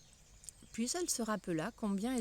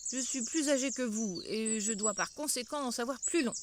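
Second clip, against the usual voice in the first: boudeur. Acted. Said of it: "lui dit d'un air boudeur".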